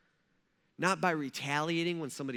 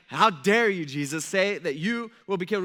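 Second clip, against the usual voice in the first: mock rebuke; 6 dB louder than usual. Peter rebuking Jesus.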